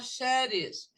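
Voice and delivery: "cherries" begun with a SH-like sound, sherries; softened CH. Shown as a demonstration. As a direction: say "cherries" as sherries, without the hard CH. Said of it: "não pode falar cherries".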